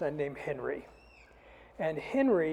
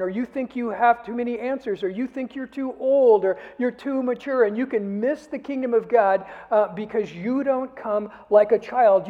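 louder and higher, urgent warning; indignant preaching; 4 semitones higher, 8 dB louder than usual. Acted. Preacher voicing the indignant Jesus to the congregation, loud and higher. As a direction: press the warning home with fire.

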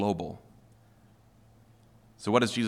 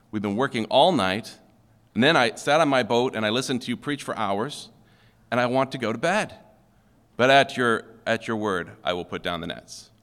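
angry voice. Pretend. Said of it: "He could be using his angry voice".

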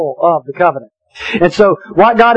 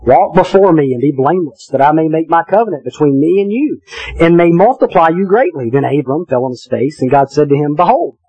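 scripture reading. Acted. Pastor reading Genesis to the congregation, solemn reading voice. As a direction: read the passage with weight and care.

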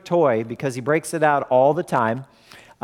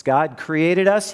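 ordinary talk

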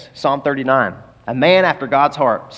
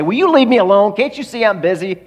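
annoyed brush-off; 6 semitones higher than usual. Pretend. Preacher voicing God as annoyed at a bothered child. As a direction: snap at an intruder to leave you alone.

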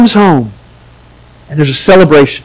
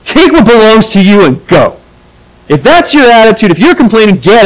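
"Take what belongs to you and go" said higher and curt, brushing off; harsh dismissal; 5 semitones higher than usual. Shown as a demonstration. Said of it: "that could be harsh".

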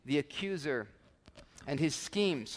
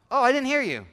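higher, louder mock-child protest; kid's excuse; 7 semitones higher, 6 dB louder, faster than usual. Child excusing themselves to a parent, mock innocent. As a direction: play a kid pleading ignorance, pitched up.

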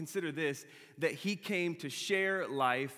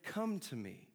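indignant Jesus; 3 semitones higher than usual. Retold or imitated. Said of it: "he turned to the disciples like".

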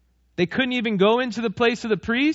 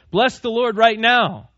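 commanding order; 4 dB louder, slower than usual. Retold or imitated. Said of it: "as if I would be commanded".

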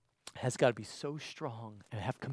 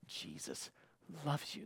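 soft whispered plea; 10 dB quieter, slower than usual. Real, not acted. Pleading gently with viewers.

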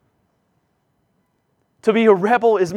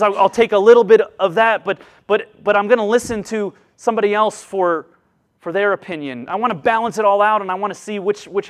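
louder, insistent self-justifying; rebel bargaining; 2 semitones higher, 4 dB louder than usual. Acted. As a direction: rebel arguing his case, louder. Preacher acting out the rebel.

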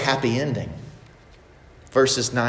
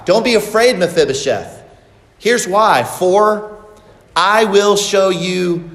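raised, louder kingly reassurance; a king calming a frightened guest; reassuring king; 4 semitones higher, 4 dB louder than usual. Acted. Preacher voices the king reassuring.

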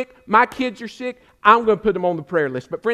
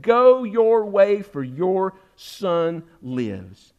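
calm reassurance; much slower than usual. Retold or imitated. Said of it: "He said to him".

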